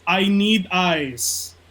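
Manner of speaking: slow, drawn-out mock Rollins craving eyes; lightly voiced Rollins, slow and pleading; mock scripture as Rollins. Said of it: "Rollins three sixteen says".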